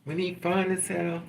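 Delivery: normal talking voice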